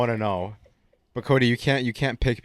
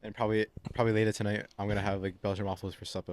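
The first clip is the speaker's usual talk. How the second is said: put-on a light Boston accent, faster pace; 4 dB quieter than usual. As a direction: say it like a Boston guy. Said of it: "Why'd you say it in that Boston accent?".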